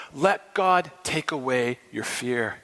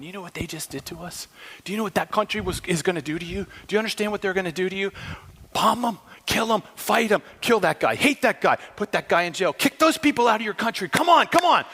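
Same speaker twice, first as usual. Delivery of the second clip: agitating Satan; 4 semitones higher, faster than usual. Pretend. Satan on the radio inciting hatred, building. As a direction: stir up hate, rising to a cry. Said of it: "Satan's on the radio going".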